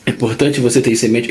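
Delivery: talking through hiccups; speech broken by hiccups. Real, not acted. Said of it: "eu tô com soluço".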